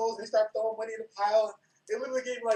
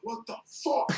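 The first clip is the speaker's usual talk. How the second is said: higher mock angry yell; retold furious demand; half-hearted mock rage; angry outburst; 6 semitones higher, slower than usual. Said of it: "I got so mad".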